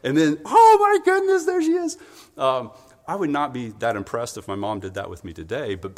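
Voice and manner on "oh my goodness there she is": loud, high squeal of mock amazement; hammed-up baby's astonished relief; delighted baby. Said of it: "the baby's like".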